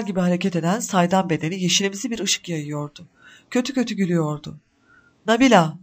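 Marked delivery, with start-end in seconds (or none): 5.3-5.8 louder menacing roar of her name. A narrator's reading. Evil spirit roaring at Nabila, menacing roar. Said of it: "diye kükredi".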